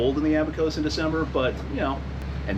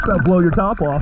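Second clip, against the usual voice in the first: shouting; 6 semitones higher, 10 dB louder than usual. Real, not acted. Shouting from the water, snorkeling.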